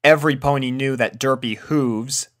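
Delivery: ordinary delivery, nothing marked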